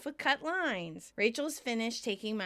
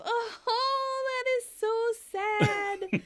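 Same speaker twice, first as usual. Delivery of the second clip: laughing; 12 semitones higher, much slower than usual. Retold or imitated. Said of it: "Rachel laughs".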